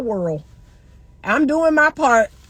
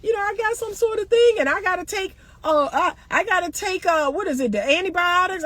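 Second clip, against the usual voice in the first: lightly higher, mock casual daughter voice; a hint of the daughter, higher and breezy; imitating daughter; 6 semitones higher than usual. Mom imitating daughter's casual excuse, higher. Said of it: "she said".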